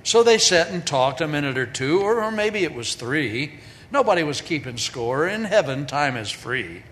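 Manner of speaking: rhythmic poem recitation; cowboy poetry. Shown as a demonstration. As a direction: recite the rhyming verse with a lilt. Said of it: "This is a cowboy poem".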